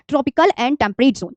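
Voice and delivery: very slow and spelled out, word by word; slow dictation. Shown as a demonstration. Teacher dictating to her class, very slowly. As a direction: lay each word down slowly so students can copy. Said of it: "बहुत अच्छे से ध्यान रखना है".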